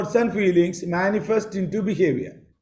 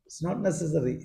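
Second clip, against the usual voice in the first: polite refusal; 6 dB quieter, faster than usual. Shown as a demonstration. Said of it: "you can change the tone".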